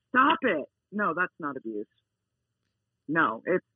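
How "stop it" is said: higher-pitched command to a dog; mild demo yell. Shown as a demonstration. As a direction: yell a correction, only lightly raised. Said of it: "if you just yell at your dog".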